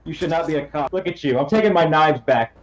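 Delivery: low-pitched role-played menace; menacing threat. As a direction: threaten them in a low, controlled voice. Role-played threat over stolen knives.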